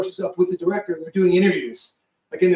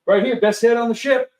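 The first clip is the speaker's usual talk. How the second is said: raised, proud tour-guide voice; cheery sailor; 5 semitones higher, 5 dB louder than usual. Retold or imitated. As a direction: show off the toilet. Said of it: "He goes".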